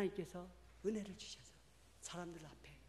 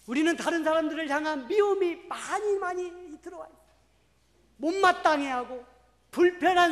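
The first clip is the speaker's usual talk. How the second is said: loud, high preaching; fervent preaching; 8 semitones higher, 13 dB louder than usual. Acted. Preacher warning the congregation about hatred, loud and high. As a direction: press the point home.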